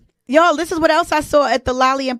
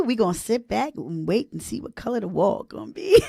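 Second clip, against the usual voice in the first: tearing up; 5 dB quieter than usual. Real, not acted. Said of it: "oh, having a moment".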